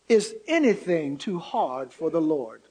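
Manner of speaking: deep, booming voice of God; best God voice. Retold or imitated. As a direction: speak as the Almighty, low and weighty. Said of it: "with his best God voice".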